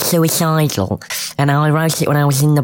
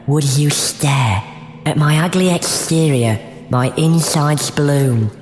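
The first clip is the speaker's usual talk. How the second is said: poem reading. Acted. Reads her poem aloud.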